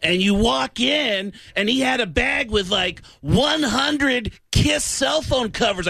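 high, slow, shouted rocker voice; impression of a rock singer. Telling the host about a rock musician's house, high shouted rocker impression. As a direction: belt it out like an amazed rock singer. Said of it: "loves that I do these impressions of the guys from the band".

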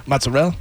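mozzarella said mutz-a-rell with the last syllable cut off; Italian-American mozzarella. Shown as a demonstration. S1 shows how the neighborhood says mozzarella, clipped ending. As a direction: drop the final vowel of mozzarella, New Jersey Italian style. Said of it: "We say in my neighborhood".

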